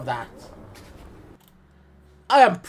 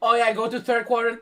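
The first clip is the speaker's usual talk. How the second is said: mock crime-show tech, quick and raised; hurried TV image-analyst parody; CSI investigator; 5 semitones higher, faster than usual. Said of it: "Fucking an episode of C S I?".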